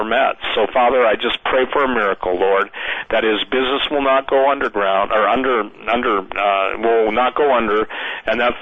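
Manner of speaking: fervent spoken prayer over a friend. Acted. Host praying aloud for a struggling friend, earnest prayer voice. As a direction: pray it steadily, pleading with God.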